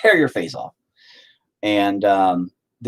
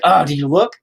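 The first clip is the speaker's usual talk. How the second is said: exasperated parent; 7 semitones higher, 5 dB louder than usual. Retold or imitated. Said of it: "I'm just like".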